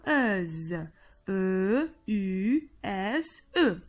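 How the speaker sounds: "Euse" then E U S E letter by letter, slow; spelled out slowly. Shown as a demonstration. Teacher spelling the ending for pupils, slowly. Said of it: "ننطقها Z".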